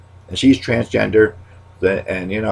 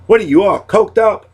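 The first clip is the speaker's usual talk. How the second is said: much higher, louder teasing jab; pitched-up comic retort; high mock accusation; 12 semitones higher, 4 dB louder than usual. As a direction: needle them in a squeaky voice. Catchphrase fired at a friend.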